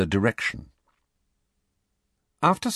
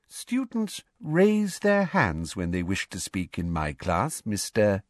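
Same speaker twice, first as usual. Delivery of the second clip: prim teacher voice. Acted. Umbridge rebuking.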